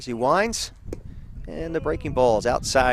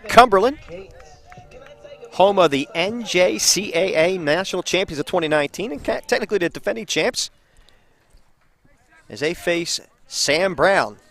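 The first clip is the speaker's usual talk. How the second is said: baseball announcer setting up the inning; measured live sportscast delivery; play-by-play; 4 semitones higher than usual. Real, not acted. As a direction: announce the home team with punchy emphasis.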